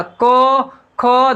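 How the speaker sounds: को, खो made to buzz in the throat; throat consonants. Shown as a demonstration. Teacher showing pupils the buzz in the throat, guttural articulation. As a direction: let the throat ring on को, खो. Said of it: "देख झंझना गया यहाँ पे".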